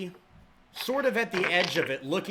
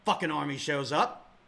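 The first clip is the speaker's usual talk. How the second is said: gruff captain snapping at latecomers, a bit louder; fed up, it's about time; annoyed officer, louder and pushy; irritated captain; 4 semitones higher, 5 dB louder than usual. Acted. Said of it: "Horblack looks at you and he says".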